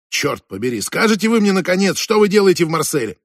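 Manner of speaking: mild angry outburst; exasperated demand. Acted. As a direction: lose patience and press for an answer. Exasperated interrogator swearing, demanding answer.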